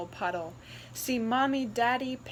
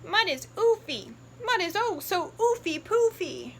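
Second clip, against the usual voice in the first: higher, louder brother; gleeful brother pig; 8 semitones higher, 3 dB louder than usual. Acted. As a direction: revel in the mud.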